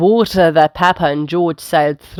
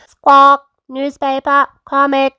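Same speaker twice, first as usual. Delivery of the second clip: high parrot mimicry after a loud squawk; Polly Parrot; 7 semitones higher, 4 dB louder than usual. A narrator's reading. Parrot copying the order, high bird voice. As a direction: squawk and repeat word by word, high. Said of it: "Polly Parrot copied".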